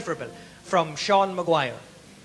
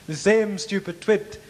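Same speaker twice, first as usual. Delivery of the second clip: parrot punchline. Acted.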